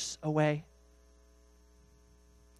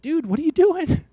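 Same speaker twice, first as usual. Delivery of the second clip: high, loud call across the salt flats; high shout to a man heading into the flats; 13 semitones higher, 6 dB louder than usual. Acted. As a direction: shout after a friend walking away. Calling to a man walking off.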